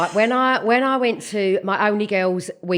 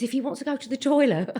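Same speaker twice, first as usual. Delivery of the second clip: softer, giggling through the words; laughing quote; 2 semitones higher, 6 dB quieter than usual. Retold or imitated. Mother quoting herself to teachers, giggling softly. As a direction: try to say it while laughing. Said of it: "I just used to say to the teachers".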